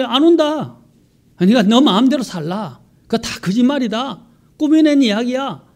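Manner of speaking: loud, high imitated jeering; retold ridicule, pushed up in pitch and volume; mocking scoffers. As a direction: dismiss it all like a scornful crowd. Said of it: "그리고 조롱한다는 거죠".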